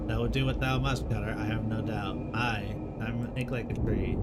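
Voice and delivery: lightly voiced solemn forest folk, old-fashioned speech; a hint of a grave medieval woodcutter questioning trees; archaic woodland dialogue. Voices archaic tree characters in dialogue.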